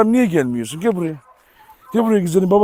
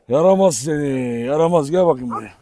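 fond scolding; 5 semitones lower, 4 dB quieter than usual. Real, not acted. Fond teasing of a naughty dog.

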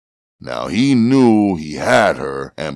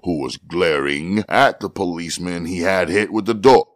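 usual speaking voice

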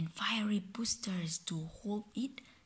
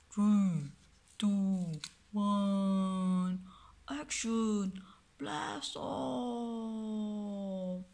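loud, high launch countdown; excited countdown; 4 semitones higher, 4 dB louder, much slower than usual. Pretend. Parent counting down the rocket launch for the child, loud and excited. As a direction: count down and shout the blast-off.

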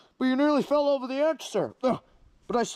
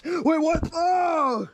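startled yelp; 7 semitones higher, much slower than usual. Acted. Villain startled by reversal.

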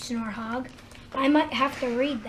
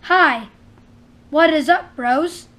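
plain; 2 semitones higher, 8 dB louder than usual. Shown as a demonstration. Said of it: "Speak to me and I'll speak back".

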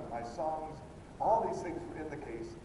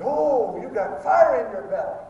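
high, loud exclamation of fiery approval; excited exclamation; 8 semitones higher, 11 dB louder than usual. Retold or imitated. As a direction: imitate a fired-up brother, loud and high. Excited brother exclaims to preacher.

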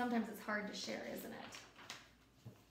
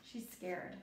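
hushed; 7 semitones lower, 10 dB quieter than usual. Real, not acted. Teacher hushes to children over a scared girl. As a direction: drop much lower and softer. Hushed comment on a frightened picture.

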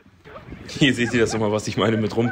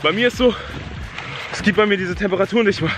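hyped and freezing; 8 semitones higher than usual. Real, not acted. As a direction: shout it, buzzing from the cold. Freezing after icy sea swim.

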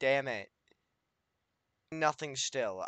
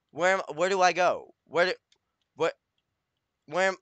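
panicked; 4 semitones higher, 5 dB louder, faster than usual. Real, not acted. Panicking in the nether.

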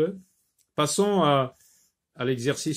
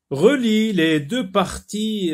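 much higher, louder and slow; reading the instruction; 9 semitones higher, 6 dB louder, slower than usual. Shown as a demonstration. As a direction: read the instruction out for pupils. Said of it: "reads the exercise instruction". (lecture de la consigne, plus fort et aigu)

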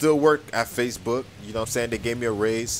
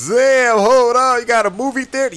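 higher, louder amazed question; amazed viewer; 11 semitones higher, 8 dB louder than usual. Retold or imitated. Voicing viewers who can't believe the theater, higher and louder. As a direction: play the stunned fan. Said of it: "You guys like".

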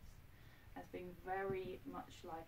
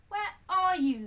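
high, loud worried call; a girl calling for her lost lamb; crying out; 10 semitones higher, 12 dB louder than usual. Acted. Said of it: "she cried".

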